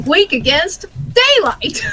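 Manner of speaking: slow flat entry, laughing; drawn-out Pokédex readout; Pokédex monotone voice. Pretend. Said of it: "use that monotone voice and describe it".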